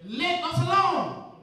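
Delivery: slow, drawn-out demon's protest; defiant demon. Acted. Preacher voicing the demon's stubborn plea to Jesus. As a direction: stretch it out like a stubborn spirit. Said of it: "look at what he said".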